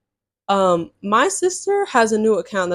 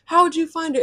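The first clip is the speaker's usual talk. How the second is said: retold outrage; 7 semitones higher than usual. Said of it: "So I get so mad because I'm like".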